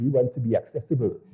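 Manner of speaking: put-on strong, heavy French accent, low pitch. The speaker recounts a stranger who tapped their shoulder after a demonstration, French accent. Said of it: "a very French accent said".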